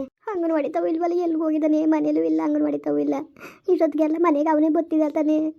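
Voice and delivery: crying, words drawn into a wail; tearful worry. Acted. Mother wondering where her son went, crying. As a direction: fret aloud through tears. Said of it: "ಯಾಕೆ ಹಿಂಗ್ ಅಳ್ತಾ ಇದೀಯಾ".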